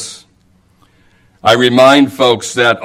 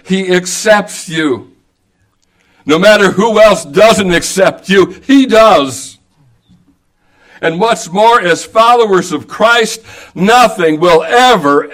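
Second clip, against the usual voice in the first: preaching at full force; 3 semitones higher than usual. Acted. Preacher to his congregation, soaring climax on God's love. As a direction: preach it out, climbing toward the peak.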